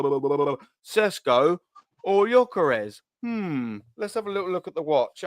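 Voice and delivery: lazy, dismissive mock voice, blah blah; mocking the club's complacent dithering; mock dithering Arsenal. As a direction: play the unbothered club that shrugs off the deadline. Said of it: "Arsenal are like".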